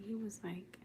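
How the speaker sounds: whispered lead-in. Real, not acted. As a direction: drop to a whisper. Whispers to chat at night.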